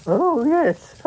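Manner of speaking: giggling up high through the line; breaking character giggling. Real, not acted.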